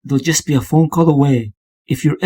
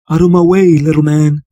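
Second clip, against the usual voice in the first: menacing shove; 5 dB louder than usual. Acted. Intruder shoving past the guard.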